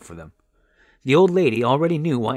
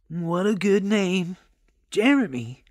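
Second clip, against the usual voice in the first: higher, drawn-out approval; admiring old woman; 8 semitones higher, slower than usual. A narrator's reading. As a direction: savour the name as a kindly old lady. Old lady admires baby's name.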